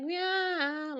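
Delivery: high whining meow; whiny cat meow. Retold or imitated. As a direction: whine it like a cat wanting out. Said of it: "kind of like a whine meow".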